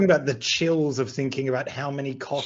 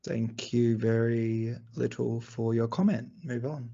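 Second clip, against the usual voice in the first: football hooligan; 3 semitones lower, 5 dB quieter, slower than usual. Pretend. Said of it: "your best football hooligan impression".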